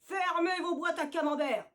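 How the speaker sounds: annoyed. Acted. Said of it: "s'énerve Nénès le rouquin".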